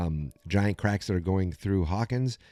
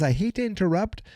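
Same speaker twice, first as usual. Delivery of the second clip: high Murray voice; 11 semitones higher than usual. Retold or imitated. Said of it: "who actually says".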